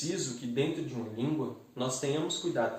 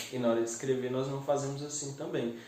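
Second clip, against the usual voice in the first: usual speaking voice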